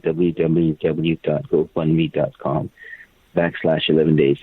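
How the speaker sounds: slow letter-by-letter W W W; careful slow dictation; dictating a web address. Real, not acted. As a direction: spell each part slowly so listeners catch it.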